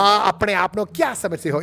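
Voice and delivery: Bollywood line in British Asian Hindi; lightly dramatic British Desi delivery; British Desi accent. Shown as a demonstration. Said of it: "my British version".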